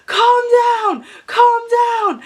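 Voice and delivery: high, imitated friends' plea; urgent calling out. Friends passing in the other car, high urgent mock call.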